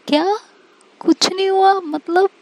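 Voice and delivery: can't believe what she just heard; stunned friend asking in disbelief; shocked disbelief. Acted. Friend shocked nothing happened.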